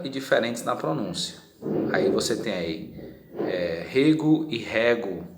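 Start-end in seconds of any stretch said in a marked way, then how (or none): 3.9-5.3 rego then rego, first e open then closed. Shown as a demonstration. Teacher contrasting vowels, open and closed e. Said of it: "um com fechado".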